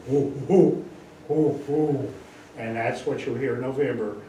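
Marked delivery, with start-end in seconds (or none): 0.1-2.1 owl hoot. Retold or imitated. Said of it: "And I'll hear".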